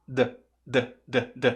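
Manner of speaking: short voiced "d" taps; isolated D sound. Shown as a demonstration. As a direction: say "d" as in "dá" with the A removed. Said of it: "Tira o A". ("d" vozeado, sem o A)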